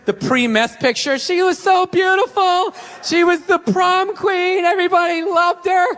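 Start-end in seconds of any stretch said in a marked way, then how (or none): 1.2-5.8 documentary narrator. Retold or imitated. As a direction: lay it on like a sappy TV narrator. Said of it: "classic before picture".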